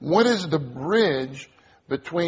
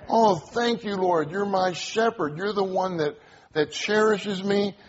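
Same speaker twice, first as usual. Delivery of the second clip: raised, earnest prayer in short phrases; fervent demonstrated prayer; 3 semitones higher than usual. Shown as a demonstration. Preacher thanking the Lord for care all his life, fervent prayer. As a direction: pray it aloud phrase by phrase, thankfully. Models praying the verse back.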